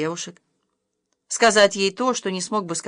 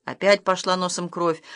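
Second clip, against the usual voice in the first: plain reading voice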